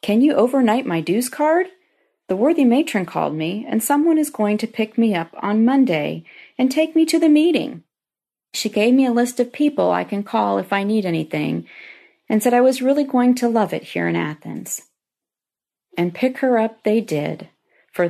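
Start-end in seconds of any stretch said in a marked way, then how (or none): 0.0-1.7 imitating an excited daughter, pitched up; lively retold excitement with bouncing pitch; bubbly, enthusiastic. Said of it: "in a bubbly, enthusiastic voice". 2.3-14.8 retold daughter's happy news; mildly excited imitation of a daughter; bubbly, enthusiastic. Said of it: "in a bubbly, enthusiastic voice".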